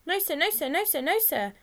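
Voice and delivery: high, loud, anxious chant; frantic schoolboy pleading; frantic denial. A narrator's reading. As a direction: deny it over and over to a teacher, panicky. Frightened boy denies to stern teacher.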